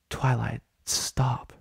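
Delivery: gently but firmly make her stop; calm power. A narrator's reading. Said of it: "with that same calm power".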